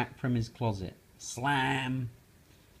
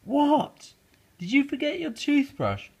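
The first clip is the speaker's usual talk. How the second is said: put-on much higher, louder child frog; high Froggy voice; 7 dB louder than usual. Froggy answering his mother, high squeak. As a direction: squeak back to mom.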